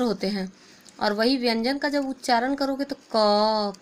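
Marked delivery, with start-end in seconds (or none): 3.2-3.7 क drawn out so the "a" inside is heard; क sounded as a long "kaa-uh"; hidden vowel shown. Shown as a demonstration. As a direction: hold the vowel at the end of क. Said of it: "क में क्या छिपा है".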